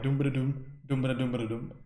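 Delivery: nonsense syllables bouncing to a rhythm; mock Kannada rhythm. Shown as a demonstration. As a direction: drum out the beat of the language. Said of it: "That's how Kannada sounds like".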